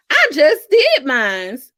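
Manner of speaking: slow, gushing excitement with a laugh; gushing read. Retold or imitated. Coach reading a follower's post, mock excited. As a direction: read it like a thrilled fan post. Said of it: "I don't know why I said it like that".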